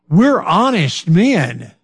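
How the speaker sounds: slow, drawn-out mock protest of honesty; a hint of ironic mockery in a slow voice; mock earnest claim. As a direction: say it slowly, like a claim nobody could believe. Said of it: "Probably, yeah, you'd wanna laugh".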